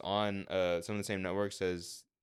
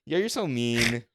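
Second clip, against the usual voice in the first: loud, high, laughing protest; laughing outrage; 8 semitones higher, 12 dB louder, slower than usual. Real, not acted. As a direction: cry foul while cracking up.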